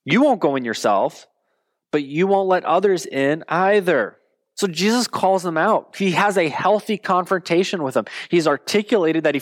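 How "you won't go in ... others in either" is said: scripture reading. Acted. Pastor reading Jesus's rebuke to the congregation, measured. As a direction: read it out as a stern rebuke.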